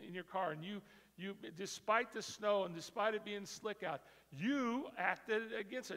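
loud, rousing sermon cadence; preaching at full force. Real, not acted. Preacher rousing the congregation about little things. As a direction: build and drive every line.

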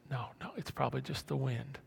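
quick, soft dismissal; voice of reason. Acted. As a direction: brush the fear away quietly. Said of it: "the prefrontal cortex says".

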